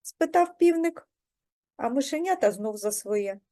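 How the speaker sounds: usual speaking voice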